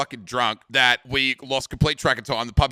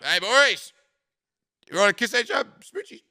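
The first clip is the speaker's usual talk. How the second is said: mock flirty invite; 10 semitones higher, 5 dB louder than usual.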